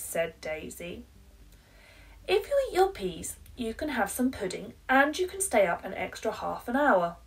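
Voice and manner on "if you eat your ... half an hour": higher, louder and fast bargaining; pleading mum. Acted. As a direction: bribe the child, getting more eager.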